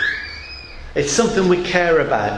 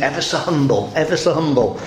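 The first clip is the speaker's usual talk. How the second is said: lightly voiced fawning Uriah Heep; a hint of an oily, creeping clerk; Uriah Heep impression; 3 semitones lower, faster than usual. Preacher mocking Dickens' false-humble clerk lightly. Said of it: "that character in Dickens".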